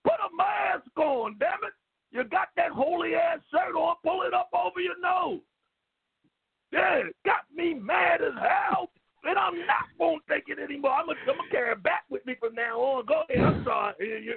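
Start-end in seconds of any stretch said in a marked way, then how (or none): 0.0-5.4 high, angry retold scolding; mock yell at a man without a mask. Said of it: "I said". 6.7-10.9 mock shout. Caller repeating catchphrase.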